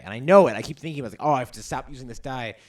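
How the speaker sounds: ordinary talk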